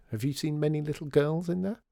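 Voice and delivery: put-on high little-girl voice, mildly surprised; slightly taken aback. A narrator's reading. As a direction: question it as a startled child. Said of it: "slightly taken aback by the question".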